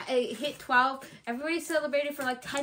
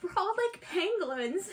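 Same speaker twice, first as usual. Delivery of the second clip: retold bystander; 4 semitones higher, 6 dB quieter, slower than usual. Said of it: "one lady was like".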